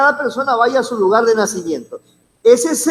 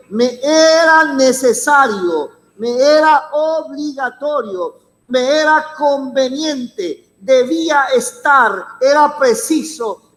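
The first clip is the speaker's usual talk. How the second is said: emphatic enumeration; slower than usual. Acted. Preacher hammers synonyms of necessity.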